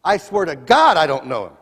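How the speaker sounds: swearing an oath. Acted. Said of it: "with an oath".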